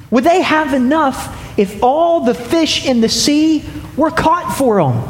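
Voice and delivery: incredulous, questioning God voice. Acted. God questioning Moses in disbelief, incredulous. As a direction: ask it as God would, doubting the numbers.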